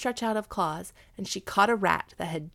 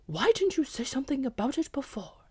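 higher, gruff demand; demanding dog; 6 semitones higher, 4 dB louder than usual. Acted.

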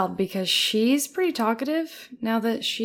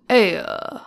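put-on New England accent; 4 dB louder than usual. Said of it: "his was like".

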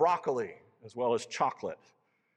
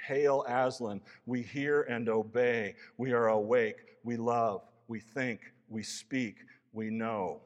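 louder, ringing chorus of beasts; crying out in unity; 5 dB louder, slower than usual. Acted. The beasts answer Aslan with a louder, joyful cry. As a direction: hail the lion like a joyful crowd. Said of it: "cried out".

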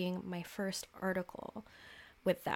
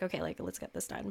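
lower, softer, fast businesslike "Okay, like, let's get this done"; stern adult; 8 semitones lower, 5 dB quieter, faster than usual. Retold or imitated. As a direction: clip it down like a no-nonsense boss. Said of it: "That Capricornian sternness".

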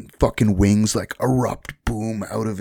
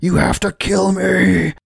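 pleading Ethan; 10 semitones higher, 3 dB louder than usual. Retold or imitated. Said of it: "then he's like".

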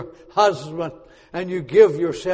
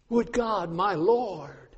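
soft plea; 5 dB quieter, much slower than usual. Shown as a demonstration. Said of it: "repeated phrase".

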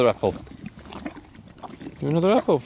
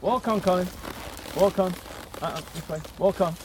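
put-on slight cowboy accent; 4 dB quieter than usual. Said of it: "I said it in a slightly cowboy accent".

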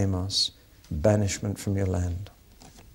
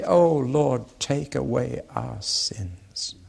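1 humble prayer; slower than usual. Shown as a demonstration. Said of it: "That's the kind of prayer he wanted".

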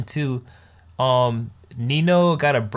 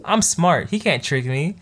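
indignant bragging; 4 semitones higher than usual. Retold or imitated. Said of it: "She's like".

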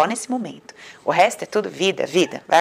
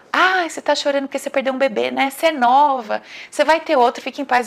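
higher, louder mock doctor; doctor consoling the crying patient, mocked higher and louder; imitating the doctor; 5 semitones higher, 4 dB louder than usual. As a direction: parody the doctor's condescending comfort. Doctor's words acted out.

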